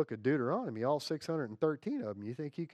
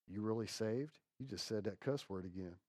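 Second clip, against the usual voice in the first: devil's accusation; 4 semitones lower, 10 dB quieter than usual. Acted. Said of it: "When the devil goes into your left ear".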